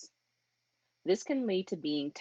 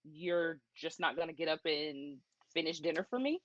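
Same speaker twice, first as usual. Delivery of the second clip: dry, mocking complaint; sarcastic. Wife sarcastically asks her husband about dinner. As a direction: let the sarcasm drip. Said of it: "with a little sarcasm in there".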